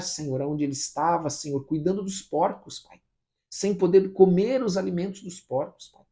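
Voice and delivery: insistent prayer, building in force; fervent prayer. Real, not acted. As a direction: plead with God in rolling, emphatic phrases. Prayer grows more fervent. (oração fervorosa e insistente)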